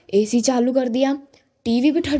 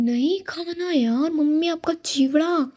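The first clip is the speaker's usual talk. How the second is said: exasperated refusal; 5 semitones higher than usual. Retold or imitated. Fed-up daughter refusing again.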